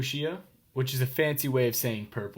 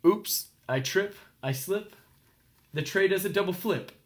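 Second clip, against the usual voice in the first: mishap; 5 semitones higher than usual. A narrator's reading. Nancy tripping with the tray, high alarm. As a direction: build the tumble breathlessly high.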